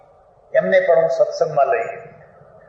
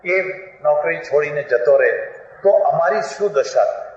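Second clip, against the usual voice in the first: normal talking voice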